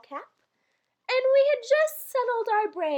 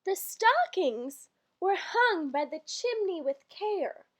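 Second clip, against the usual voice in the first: slow, measured verse reading; poem recital; slower than usual. Acted. Reading the Christmas poem to listeners, measured recital. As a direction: lilt through the rhyme like a bedtime poem.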